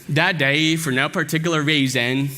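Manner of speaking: attempting a Forrest Gump Southern accent. Pastor tries a Forrest Gump Southern accent for church. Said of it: "I'm gonna attempt to do the accent".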